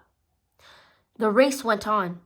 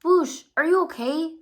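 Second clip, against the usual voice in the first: higher, louder worried pup; 8 semitones higher, 4 dB louder than usual. A narrator's reading. Marshall asking the hurt Whoosh if he is okay, high and worried. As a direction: call out anxiously to a hurt friend. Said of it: "asked Marshall".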